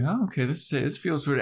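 high-pitched mock unease; retold, squeamish and high; uneasy William. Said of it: "And William's like".

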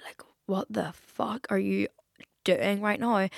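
slow, soft mock disbelief; hushed self-reproach. Podcaster catching herself out, hushed mock self-reproach. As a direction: quietly question yourself, dragging it out.

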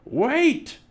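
high, loud desperate call; captain calling out. A narrator's reading. Pirate captain as his crew rows off, yelling high. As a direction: yell after a departing boat.

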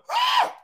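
short, high mock yell of pent-up anger; acted exasperated "ah!"; frustrated yell. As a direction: let out a cut-off cry of frustration. Acts out officer's pent-up outburst.

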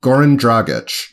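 Goran Dragic with hard G, CH ending; habitual pronunciation. Shown as a demonstration. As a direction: say Dragic as DRAG-itch, carefully. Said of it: "That's how it".

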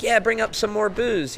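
retold yell. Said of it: "Ben was yelling down".

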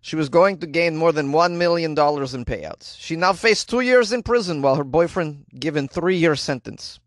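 a light put-on Slovenian accent. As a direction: read the news in a hint of Slovenian accent. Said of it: "I can do an accent that's close".

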